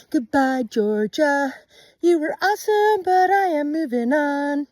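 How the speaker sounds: high, loud cheerful goodbye; excited farewell. Real, not acted. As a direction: call out a happy goodbye. Farewell to Georgia.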